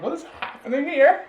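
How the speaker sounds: high, loud, baffled squeak; a mock bewildered squeal. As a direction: act totally thrown by it. Retold awkward hug, baffled.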